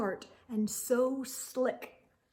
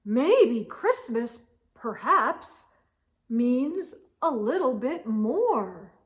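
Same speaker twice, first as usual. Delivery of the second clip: dawning realization; 3 dB louder than usual. Acted. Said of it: "he thought".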